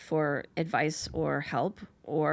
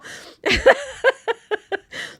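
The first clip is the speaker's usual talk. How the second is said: long high-pitched laugh; loud, real laughter; amused laugh; 7 dB louder than usual. Real, not acted. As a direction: crack up at your own comeback. Laughs at own comeback.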